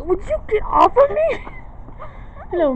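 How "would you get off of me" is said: high, whining complaint; whiny annoyed. Real, not acted. Girl keeps bumping into her.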